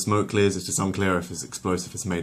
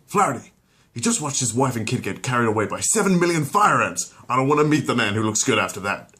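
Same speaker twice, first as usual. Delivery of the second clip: urgent aside; 5 semitones higher, 5 dB louder than usual. Acted. Rookie whispers aside.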